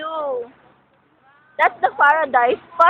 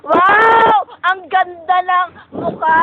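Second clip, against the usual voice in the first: excited shout; 3 dB louder, much slower than usual. Real, not acted. Joking awe at own face.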